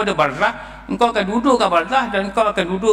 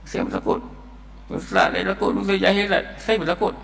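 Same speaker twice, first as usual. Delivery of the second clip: softer, frightened whispered confession; half-whispered, on the edge of tears; a scared man confessing to the preacher, softly and tearfully; 5 dB quieter than usual. Retold or imitated.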